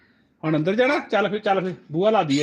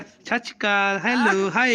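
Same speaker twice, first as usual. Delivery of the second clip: higher, drawn-out greetings for copying; baby-talk prompting; 5 semitones higher, slower than usual. Shown as a demonstration. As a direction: model it sweetly for a toddler. Models greeting for toddler to copy. (ਬੱਚੇ ਨੂੰ ਸਿਖਾਉਣ ਵਾਲਾ ਤੋਤਲਾ ਲਹਿਜ਼ਾ)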